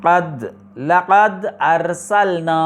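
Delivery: slow model reading with a clear hamza on ارسلنا in mid-phrase; slow Quranic recitation. Shown as a demonstration. Teacher shows that the hamza stays when it comes in the middle: slow recited لقد ارسلنا. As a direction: read لقد ارسلنا very slowly as laqad arsalnā, keeping the a of ارسلنا sounded. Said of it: "اب درمیان میں آ گیا".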